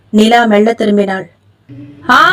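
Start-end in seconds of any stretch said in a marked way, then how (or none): 2.1-2.2 terrified scream. A narrator's reading. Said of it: "அலறினான் Vijay படுபயங்கரமாய்".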